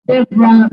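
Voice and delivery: Deborah said as Deb-rah, two syllables; silent O. Shown as a demonstration. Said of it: "The O is silent".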